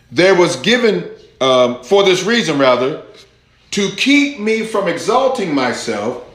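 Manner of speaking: preacher's scripture reading. Acted. Preacher reads Second Corinthians to congregation, deliberate scripture reading.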